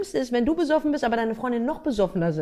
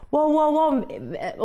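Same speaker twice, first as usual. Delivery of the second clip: slow, high drawn-out cheer; cheering friends; 4 semitones higher, much slower than usual. Retold or imitated. Friends cheering her drinking contest, slow drawn-out cheer. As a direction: stretch each wow like a cheering crowd.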